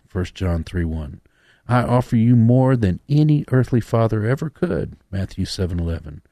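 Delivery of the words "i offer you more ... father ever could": reading a love letter. Acted. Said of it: "I'm reading a love letter from God".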